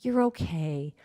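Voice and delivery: soft, hushed, tender murmur; gentle, quiet reassurance; soothing a baby. Acted. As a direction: comfort a little one, almost whispering. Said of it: "what would you do? You would rock it".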